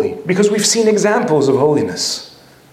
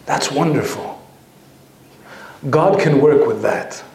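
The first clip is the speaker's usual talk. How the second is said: warm smiling reply; 3 semitones lower, slower than usual. Retold or imitated. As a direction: let a proud smile carry it. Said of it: "he smiles from ear to ear".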